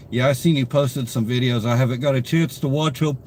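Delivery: sleepy, mid-yawn. Real, not acted. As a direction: talk through a yawn. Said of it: "Sorry that I'm yawning".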